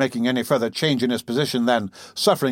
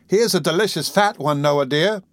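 lightly voiced, higher coaxing girl; fond serving girl; 5 semitones higher than usual. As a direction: offer it sweetly in a higher pitch. Voices Charlotte offering oysters.

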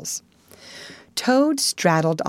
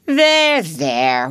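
more kindly; 6 dB louder than usual. A narrator's reading. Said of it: "more kindly".

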